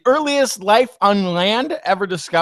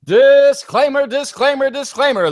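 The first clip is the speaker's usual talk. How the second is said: carnival barker; 4 semitones higher, 4 dB louder than usual. Acted. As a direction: call it out like a showman. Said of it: "what a wonderful bit of carnival barking".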